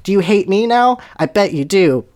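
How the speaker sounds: high, taunting mock yell; bold yell. Draco taunts Voldemort after converting, with a mild bold yell. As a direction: taunt boldly, starting high. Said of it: "Draco yelled boldly".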